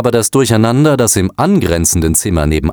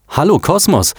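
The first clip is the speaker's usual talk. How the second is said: much higher, timid hello; nervous greeting; 10 semitones higher than usual. A narrator's reading. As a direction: greet the machine shyly. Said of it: "sagte George nervös".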